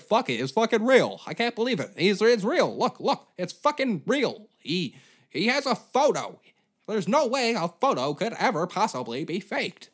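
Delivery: high, loud mock amazement; mocking gullible people. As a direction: gasp like a fool who believes any photo. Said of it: "they're like".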